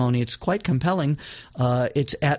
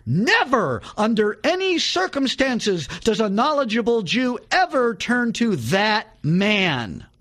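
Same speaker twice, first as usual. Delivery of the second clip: raised, higher voice, proclaiming hard; retold shout; 5 semitones higher than usual. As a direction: preach it at the crowd, gripping the podium. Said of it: "shouted to the audience".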